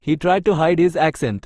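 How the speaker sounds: each word spaced out slowly for learners; slow dictation. Shown as a demonstration. Teacher reading an English example sentence to Tamil learners, very slow and clear.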